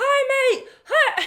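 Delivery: put-on Australian accent, very high, loud, drifting English. Retelling how a driver greeted people from his window: imitating an Australian accent. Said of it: "when I'm trying to do Australian now, it's coming out English".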